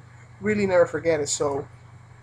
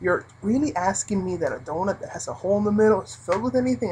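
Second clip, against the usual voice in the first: sarcastic disbelief; 2 semitones higher than usual. Retold or imitated. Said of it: "I said this all inside".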